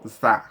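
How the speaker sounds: za with a clear buzzing Z sound. Shown as a demonstration. Teacher sounding the za syllable for the class, buzzing Z. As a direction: stretch the za so the Z hum is heard. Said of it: "tem o som de Z".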